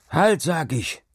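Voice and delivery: high-pitched commanding shout; insistent shout. A narrator's reading. Hauke overrules the protesting worker, insistent shout. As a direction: shout the order, brooking no refusal. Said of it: "schrie Hauke wieder".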